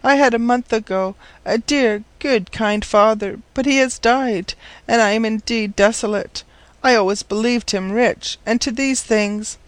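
put-on high-pitched girl's voice, sorrowful; forlorn orphan girl. Orphaned girl telling the professor of her father's death, desolate.

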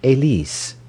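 lightly sneered foreign name; great contempt. A narrator's reading. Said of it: "repeated the name with great contempt".

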